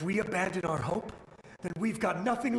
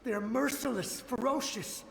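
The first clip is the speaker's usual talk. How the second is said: climbing higher with each word, dread building; rising dread; 6 semitones higher than usual. Acted. Soldier warning strangers of the monsters, rising dread. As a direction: let the fear mount phrase by phrase.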